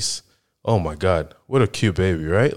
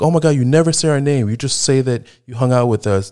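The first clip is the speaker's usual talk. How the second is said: higher-pitched imitation of complaining friends; mock complaint; 6 semitones higher, 3 dB louder than usual. Friends griping to the podcast host about never being named, mock complaint. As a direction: playfully mimic friends' griping.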